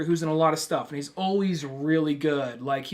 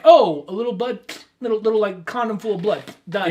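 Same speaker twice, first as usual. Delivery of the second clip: mock dismissive; 4 semitones higher, 4 dB louder than usual. Mocking cheap movie gore.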